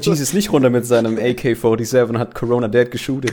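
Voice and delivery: loud, hyped-up goofy tale; excited hammy storytelling. Acted. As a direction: hype it up like a wild joke. Silly Baby Jesus fantasy. (aufgedreht übertrieben erzählt)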